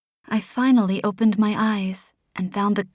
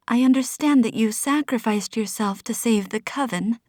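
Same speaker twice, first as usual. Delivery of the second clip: croaking. Acted. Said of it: "I croaked".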